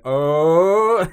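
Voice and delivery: loud, high startled "Oh"; mock startled gasp. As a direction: react like the crowd at a scare. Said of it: "they'd look over and be like".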